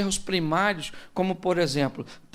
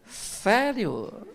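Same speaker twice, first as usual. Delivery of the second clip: ironic delight; slower than usual. Retold or imitated. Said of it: "evite ironia, porque tem gente".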